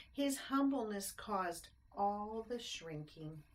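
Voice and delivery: lilting rhymed storybook narration; bouncy read-aloud rhyme; reading to children. A narrator's reading. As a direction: read it like a bedtime picture book. Reads rhyming picture book aloud.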